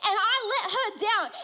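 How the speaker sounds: high, hammed-up lament; mock sobbing. Wife crying in bed over missed birthday, mock sobbing. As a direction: imitate a tearful wail without real tears. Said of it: "I am sobbing".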